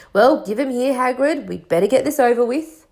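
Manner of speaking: booming half-giant speaking up; Hagrid voice. Acted. Hagrid voice in dialogue.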